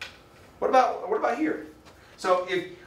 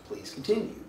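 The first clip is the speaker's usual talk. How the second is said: breathy whisper, rising at the end; whispered please continue; 5 semitones higher, 5 dB quieter than usual. Retold or imitated. Experimenter to subject, a soft whispered request. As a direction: murmur it gently, like a polite experimenter. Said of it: "all I do is say".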